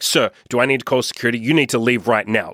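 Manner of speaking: quick, mildly aggressive mock staff warning; retold rude order, fast but not shouted. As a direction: imitate a pushy shop worker, rushing the threat. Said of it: "Like, very aggressive".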